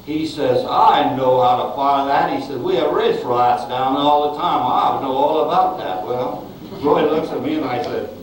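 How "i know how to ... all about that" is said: hint of a Louisiana accent; Southern accent. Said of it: "he had this very southern accent".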